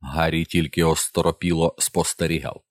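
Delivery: ordinary delivery, nothing marked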